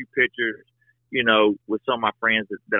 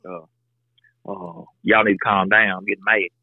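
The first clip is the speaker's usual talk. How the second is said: imitating wife; 5 semitones lower than usual. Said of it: "She'll be like".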